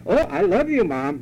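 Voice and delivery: high, sweet child imitation; mock-affectionate child to Mom; mock loving child. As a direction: lift the pitch like a gushing kid. Sarcastic mock of a child replying.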